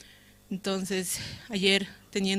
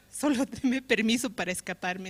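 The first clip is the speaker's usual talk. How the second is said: laughing plea; 2 semitones higher than usual. Retold or imitated. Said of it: "así".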